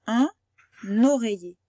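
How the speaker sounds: Un oreiller, N carried into oreiller; liaison demo. Shown as a demonstration. Teacher modelling liaison words, carefully. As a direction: say Un oreiller as unoreiller. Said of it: "il a fait comme s'il y en avait un deuxième".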